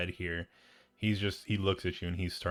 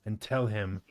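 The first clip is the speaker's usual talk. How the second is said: scolding drow; 3 semitones higher, 4 dB louder than usual. Acted. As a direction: dress down a slack underling. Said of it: "The drow looks at the bugbear and says".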